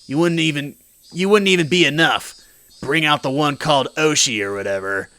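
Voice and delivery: lightly voiced mob boss, threatening; a hint of an overbearing gangster boss. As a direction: throw your weight around like a boss. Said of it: "It's my mob boss voice".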